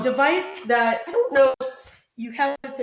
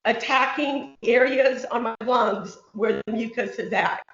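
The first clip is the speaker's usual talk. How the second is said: shaking voice. Real, not acted. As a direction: voice rattled by a vibrating vest. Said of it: "You can tell my voice is shaking".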